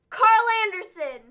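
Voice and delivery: dramatic announcement. Retold or imitated.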